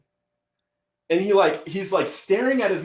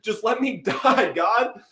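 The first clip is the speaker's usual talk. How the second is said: much higher, desperate mock yell; yelling at God; 7 semitones higher than usual. Retelling his desperate yelling at God in the car. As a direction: plead and rage at God. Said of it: "yelling at him".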